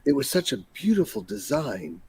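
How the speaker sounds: hushed, lilting impression of a concept artist; soft voice, stretching out the admired words; Doug Chiang. Podcast host quotes an artist to co-hosts, imitated voice. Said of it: "I'm doing my Doug Chiang voice".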